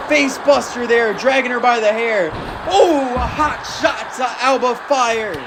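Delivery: energetic play-by-play, bursts of shouting; wrestling commentator. Acted. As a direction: keep calling the action with rising hype. Continues live match commentary.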